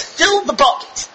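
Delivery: slow, commanding order, rising on Fill it; God commanding each person to fill the bucket. Acted. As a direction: give the command slowly and firmly. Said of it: "And the Borei Olam says".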